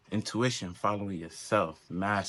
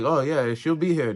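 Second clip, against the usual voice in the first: mocking someone else; 5 semitones higher, 5 dB louder than usual. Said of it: "they're like".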